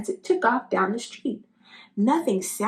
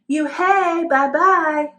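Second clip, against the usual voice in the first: louder, higher mocking call; teasing yell; 7 semitones higher, 6 dB louder, slower than usual. A narrator's reading. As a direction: shout it after her as she leaves. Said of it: "the kids yelled as she left".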